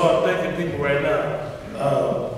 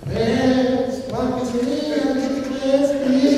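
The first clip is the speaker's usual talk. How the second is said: imitating coach; 8 semitones higher, slower than usual. Acting out his coach scolding.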